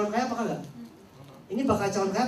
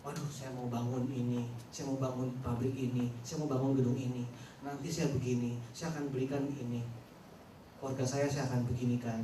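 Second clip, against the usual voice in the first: rich man voice; 10 semitones lower, 6 dB quieter than usual. Retold or imitated. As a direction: speak like a rich man planning big. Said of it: "orang kaya ngomongnya gini".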